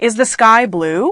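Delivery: pitch rises on the word blue. Speaker reads an example question aloud to show question intonation: rising on 'blue'. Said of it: "You hear how my voice went up on blue?".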